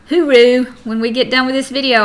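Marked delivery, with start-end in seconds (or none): 0.1-0.7 slow, loud Australian "hooroo"; a mock Aussie farewell, drawn out; playful Australian goodbye call. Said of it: "I'll say hooroo".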